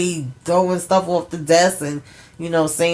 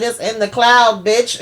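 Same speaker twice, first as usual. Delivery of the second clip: laughing taunt; 5 semitones higher, 4 dB louder than usual. Retold or imitated. Retelling Angela's taunt, laughing.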